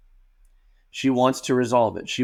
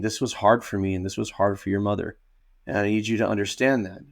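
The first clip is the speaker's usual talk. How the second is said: calm and respectful; 3 semitones lower, 3 dB quieter than usual. Shown as a demonstration. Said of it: "healthy, calm, respectful way".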